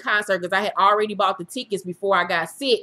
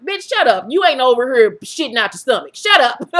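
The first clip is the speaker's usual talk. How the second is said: sassy mock snap; 3 semitones higher, 5 dB louder than usual. Reacting to her friend's pep talk, a sassy mock snap. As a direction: tell her off like she has no clue.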